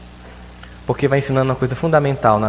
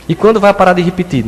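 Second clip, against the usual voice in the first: put-on child's question; 6 semitones higher, 6 dB louder than usual. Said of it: "child asking mother".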